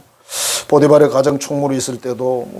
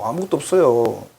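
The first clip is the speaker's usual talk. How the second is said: normal talking voice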